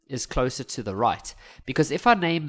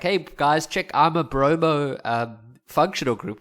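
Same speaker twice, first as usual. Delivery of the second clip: laughing bromo voice; 4 dB louder than usual. Pretend. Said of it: "Like, look how I'm laughing".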